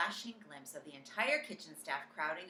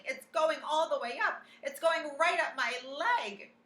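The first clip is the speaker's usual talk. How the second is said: loud high alarmed cook; frantic shouting; panicked yelling; 9 semitones higher, 9 dB louder than usual. A narrator's reading. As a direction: yell it in rising panic. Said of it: "the man was yelling".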